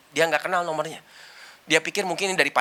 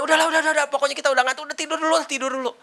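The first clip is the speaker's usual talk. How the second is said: soothing mother; 6 semitones higher, much faster than usual. Retold or imitated. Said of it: "kata mamanya".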